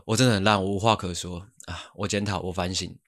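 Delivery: soft, sinking mock apology of young teammates; mopey teammates. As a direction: mimic a limp self-blaming teammate, fading. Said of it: "我表演给你看". (模仿年轻队友有气无力地自我检讨)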